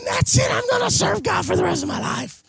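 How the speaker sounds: mock zealous promise; mock youth vow. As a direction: imitate a fired-up kid. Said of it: "and they're saying".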